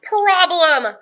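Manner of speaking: high, loud witch screech. Acted. Witch finds no piggies in pantry, shrieking. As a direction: shriek the word in outrage. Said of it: "screeched Gritch".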